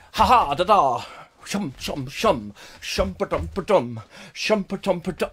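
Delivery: playful chugging mouth noises; train imitation. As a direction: chug along like a train, rhythmically.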